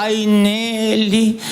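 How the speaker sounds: slow, drawn-out lament of a hypochondriac aunt; complaining aunt. Retold or imitated. Nephew retells his aunt's lament about illnesses, mildly imitated. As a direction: moan about her ailments like a gloomy aunt.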